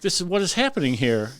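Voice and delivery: high, loud disbelieving outburst; stunned, asking a passer-by if he sees it too; disbelief. Retold or imitated. Firefighter telling a podcast crew, voicing his disbelief. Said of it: "and I'm like".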